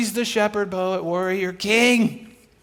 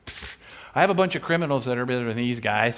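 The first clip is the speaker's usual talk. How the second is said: scoffing; 8 semitones lower, 4 dB quieter, faster than usual. Retold or imitated. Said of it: "David's like".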